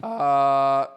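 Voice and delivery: loud groan that cracks. Real, not acted. Streamer annoyed at his past self, voice cracking. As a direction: let the voice break on a drawn-out uh. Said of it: "that was a terrible voice crack".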